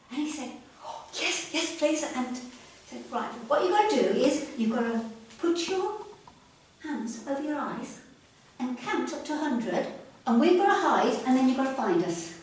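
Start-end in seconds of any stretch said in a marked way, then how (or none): 0.9-2.0 eager frog. Acted. Freddy accepts eagerly. 3.1-12.3 bossy frogs. Acted. Frogs explain the game.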